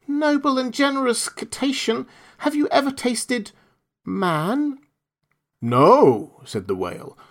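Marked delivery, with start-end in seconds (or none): 0.1-4.8 very high, tiny, cunning fish; a clever little fish flattering sweetly; small astute voice. Acted. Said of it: "in a small 'stute voice". 5.6-6.4 very slow, loud, booming; a huge whale groaning hunger; hungry whale. Acted. Whale answers.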